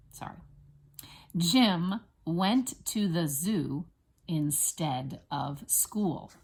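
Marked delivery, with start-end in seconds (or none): 1.4-6.3 slow, separated words with clear stresses; teacher's deliberate word-by-word reading; spelling dictation. Shown as a demonstration. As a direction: dictate it slowly for first graders to write. Teacher dictates for children to write.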